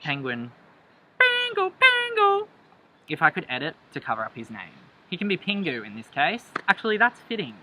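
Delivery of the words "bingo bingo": much higher, louder triumphant call; excited cheer. Real, not acted. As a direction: shout it like you won.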